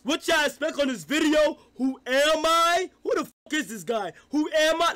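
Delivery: lightly mock his past intro; imitating younger self. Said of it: "I do not sound the same".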